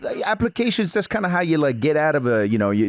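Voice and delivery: put-on lightly done New York Italian accent; Italian-American accent. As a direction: play a Jersey wise guy on the phone. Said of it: "You should do a fucking Italian accent".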